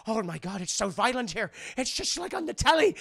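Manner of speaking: imitated alarm rising to a high squeal; mock freaking out. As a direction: work up into put-on panic. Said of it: "is just freaking out".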